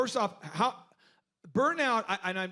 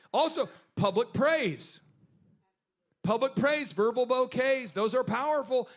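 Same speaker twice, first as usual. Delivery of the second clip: slow emphasis; 3 semitones higher, slower than usual. Real, not acted. Emphatic new point.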